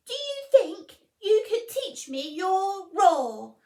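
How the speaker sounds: high, loud squeaky mouse voice; a tiny mouse daring to wake a lion; timid little mouse. Acted. Mouse politely waking the sleeping lion, high squeaky.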